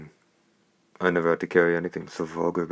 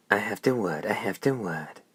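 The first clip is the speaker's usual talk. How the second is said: higher, mocking parrot of her words; shrill mimicry; 4 semitones higher than usual. A narrator's reading. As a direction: echo her back in a shrill mock. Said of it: "The hoarse voice mimicked shrilly".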